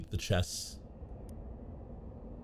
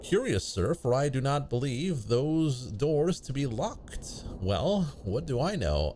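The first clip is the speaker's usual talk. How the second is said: put-on old-fashioned speech. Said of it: "When did you start talking like this?".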